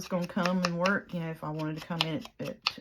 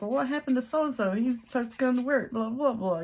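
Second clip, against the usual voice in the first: higher and louder, retold irritation; hot and mad; 7 semitones higher, 4 dB louder than usual. The speaker quoting herself to her boss, hot and mad. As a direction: demand an answer, mock heated. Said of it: "so I was hot and mad".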